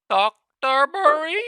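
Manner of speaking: high, loud, drawn-out cry of the name; excited shout. Real, not acted. Trader shouting at a single red candle, high loud cry. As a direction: call the name out in triumph.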